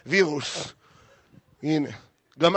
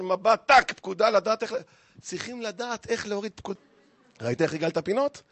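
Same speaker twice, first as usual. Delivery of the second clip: usual speaking voice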